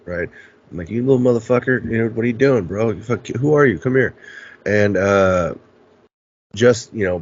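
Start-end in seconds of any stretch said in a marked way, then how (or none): 0.9-4.2 retold cocky taunting; talking shit. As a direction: act out calling out a stranger, mildly confrontational. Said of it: "And I'm talking shit".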